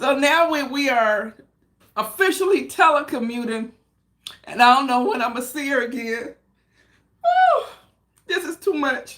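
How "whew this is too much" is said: tearful crying speech, pitched up and swooping. Telling listeners they haven't seen Michelle since Thursday, the speaker is crying while talking. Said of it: "I didn't come on here to cry".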